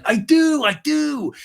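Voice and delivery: very high, loud pleading imitation; mock frantic protest. Recapper acting Sandoval protesting to Katie, mock frantic. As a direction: squeal it as a hammed-up protest.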